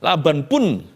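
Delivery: leicht gespielter, selbstgefälliger Jakob; prahlender Jakob. Acted. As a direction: prahlt mit seinen Tricks, etwas höher. Jakob prahlt in Ich-Form.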